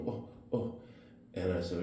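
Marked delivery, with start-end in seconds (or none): 0.1-0.8 soft mimicked ohs, pitched up; short high ohs in imitation; imitated "oh" tic. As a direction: imitate her little involuntary ohs, quietly. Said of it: "and she's going".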